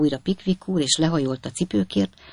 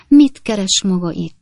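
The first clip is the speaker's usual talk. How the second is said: slow, loud, higher-pitched demand; indignant cry; 4 semitones higher, 6 dB louder, slower than usual. A narrator's reading. Lady confronts intruder in her bedroom, indignant cry. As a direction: demand it loudly, drawing words out. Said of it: "kiáltotta a hölgy".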